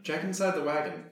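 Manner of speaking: lightly acted shout; calling out. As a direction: call over to someone a little way off. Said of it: "yell out to Trevia".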